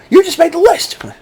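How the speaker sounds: very high cartoon voice; silly list keeper. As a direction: squeak out the threat in falsetto. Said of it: "Bring a little pad and paper".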